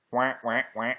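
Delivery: imitated duck quacks; playful duck noises. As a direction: quack like a duck, three short honks. Imitates ducks after talking of them.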